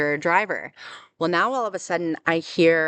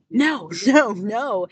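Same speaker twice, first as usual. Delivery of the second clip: retold scream; 5 semitones higher, 3 dB louder, much slower than usual. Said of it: "I'm trying to scream that too".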